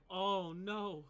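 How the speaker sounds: high, loud dismayed yelp; a goon recoiling in fright; scared henchman crying out; frightened cultist. Acted.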